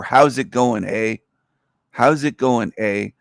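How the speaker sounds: How's it going, eh, rising then dropping on eh; Canadian greeting with eh. Shown as a demonstration. Teaching viewers Canadianese, lightly mock Canadian eh. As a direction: tack on a lazy Canadian eh. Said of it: "if you wanna speak Canadianese".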